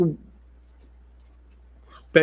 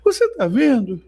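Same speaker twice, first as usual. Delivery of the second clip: higher, urgent mock crying plea; imitating a crying woman; 6 semitones higher than usual. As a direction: voice the weeping sister, pleading. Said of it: "ela vem chorando".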